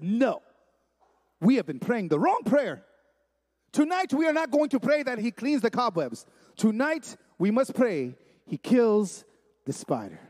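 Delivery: deliberate pauses, then drop down on the last words; resolute preacher father. Retold or imitated. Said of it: "he looked at her and said".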